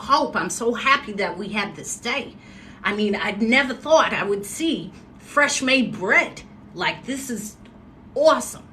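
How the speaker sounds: lightly imitated Massachusetts accent; upper Northeast accent. Woman imitating a happy dad, light Northeast accent. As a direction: put on an almost-Boston accent. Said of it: "That's how he would talk".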